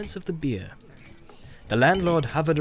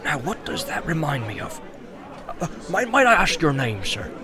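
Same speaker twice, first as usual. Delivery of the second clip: bustling innkeeper. Acted. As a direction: greet the guest heartily. Landlord puzzling.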